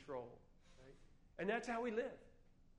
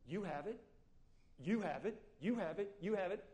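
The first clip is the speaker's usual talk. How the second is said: building serpent hiss, louder each time; tempting snake, growing louder; 4 dB louder than usual. Acted. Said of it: "that serpent voice".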